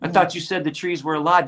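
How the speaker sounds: mock-innocent sarcastic question; needling, put-on bewilderment. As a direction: feign puzzled concern, sarcastically. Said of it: "there were times when it was sarcastic".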